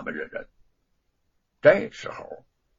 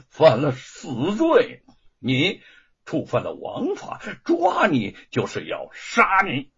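vicious threat. Acted. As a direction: drag each word out like a death sentence. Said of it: "恶狠狠地说".

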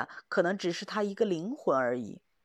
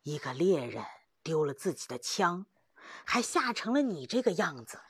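serious counsel. Acted. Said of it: "他很正经地说".

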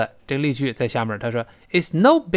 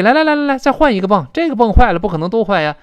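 high, louder upbeat urging; encouraging; 5 semitones higher, 4 dB louder, faster than usual. Acted. Husband keeping wife from giving up, eager encouragement. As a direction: cheer a partner on, pitched up and lively. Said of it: "就鼓励对方们别泄气".

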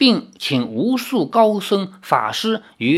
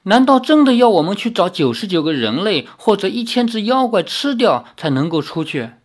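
whining with a long face; 4 semitones higher than usual. Acted. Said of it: "天鬼皇哭丧着脸说".

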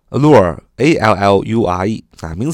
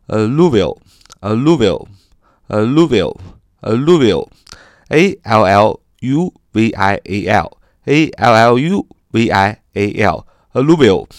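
spelling it out. Shown as a demonstration. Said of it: "教读示范".

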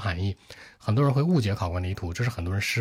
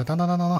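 quick light beats; 9 semitones higher than usual. Shown as a demonstration. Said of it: "当当当当当很快".

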